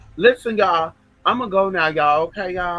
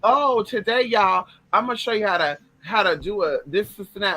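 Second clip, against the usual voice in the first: mock a fake YouTuber hyping a how-to; fake influencer voice; 4 semitones higher than usual. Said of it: "people who are on that fuckery shit, that fake shit".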